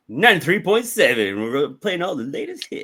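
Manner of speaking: upbeat radio host read. Pretend. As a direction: announce it like a DJ. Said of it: "You sound like a radio D J right now".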